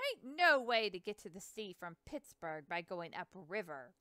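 put-on a proud old boatman bragging about his dogs; Hanson's voice. Hanson voiced, river man.

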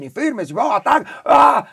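loud, high shouted drill commands; army yelling. Retold or imitated. Sergeant yelling commands at soldiers, loud and high. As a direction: yell the drill at the troops. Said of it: "te gritan y te dicen".

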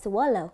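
"swallow" ending in a clear "oh"; careful "swallow", O as in go; long O ending. Shown as a demonstration. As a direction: say "swallow" with a rounded final O. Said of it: "Âm O".

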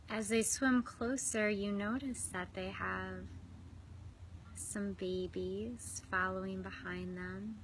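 unhurried visualization, phrase by phrase; guided meditation. Real, not acted. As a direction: guide them inward with long, restful pauses. Leads swan pool visualization.

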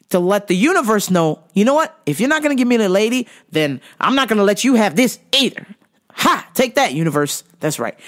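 mock defiance. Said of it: "I said".

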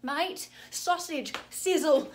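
put-on soft, playful Aussie slang in a broad accent. Aussie reeling off slang to show she's Australian, broad Aussie accent. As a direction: ham up the Australian accent lightly. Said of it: "I'm an Aussie".

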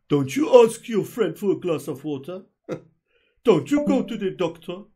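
mocking quote. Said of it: "They say things like".

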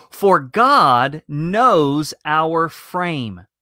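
"frame" drawn out and leaned on, whole verse very slow; deliberate slow verse with "frame" lifted out; stress on frame. Shown as a demonstration. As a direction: read it slowly, landing hard on "frame". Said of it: "I emphasize that word frame".

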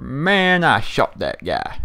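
slow imitated southern accent, dropping low; lightly mock the southern guy, slowly. Imitating a complaining southern player, slow southern accent. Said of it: "like, a southern accent, a real deep voice".

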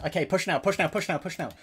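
rally the team forward, loud; urgent loud order to charge; shouted command. Real, not acted. Shot caller ordering team push.

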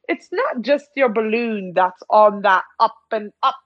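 measured, theatrical commentator delivery; game dialogue read-aloud. Acted. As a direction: read it out like a storybook narrator.

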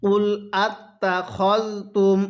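drawn-out chanted recitation; slow melodic Quranic chant. Shown as a demonstration. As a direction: recite it like a tajweed teacher. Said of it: "কিভাবে শিখব?".

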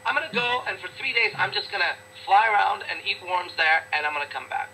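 lightly voiced lazy bird; carefree bird. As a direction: toss it off like a bird on vacation. Acted bird dialogue.

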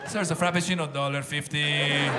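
customer and barista haggling, lightly voiced; mock haggling. Customer haggling with a Starbucks barista, mock stubborn. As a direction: bargain stubbornly. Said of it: "acted Starbucks haggling".

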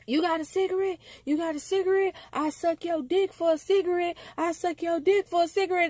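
a hint of a hustler's begging whine; imitating the man. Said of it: "this man said out of his mouth".

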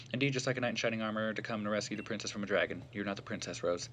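rapid run-on reading of a character's speech; quick, understated dialogue read-through; game dialogue read aloud. Acted. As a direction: rattle through the dialogue in one long stream.

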